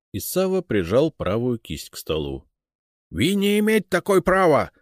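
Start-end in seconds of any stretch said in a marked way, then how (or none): 3.1-4.7 high, loud, anxious foreign protest; agitated Englishman in broken Russian; English accent Russian. Acted. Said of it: "заволновался англичанин". (английский акцент, взволнованно)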